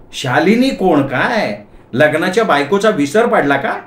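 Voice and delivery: slow, drawn-out indignant question; indignant wife. Acted. Wife scolding husband who forgot her, indignant. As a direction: challenge him like an affronted wife.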